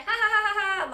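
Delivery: high sing-song ha ha; little girl giggling at her own lie; mock kid laughter. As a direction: tease like a kid who got away with a fib. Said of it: "laughing because she knows she lied".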